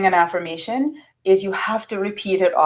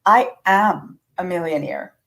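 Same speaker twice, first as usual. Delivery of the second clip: sincere affirmation. Shown as a demonstration. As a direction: settle into the words gently. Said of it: "So I would start that affirmation with".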